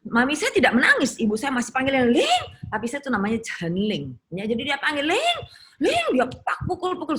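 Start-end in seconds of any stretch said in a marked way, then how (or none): 2.1-2.4 very high, loud cry of a name; sudden high-pitched call; retold calling out. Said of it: "saya dengar teriak-teriak". 5.1-6.1 imitated high-pitched call, repeated; mother's cry for her daughter, imitated; retold calling out. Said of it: "saya dengar teriak-teriak".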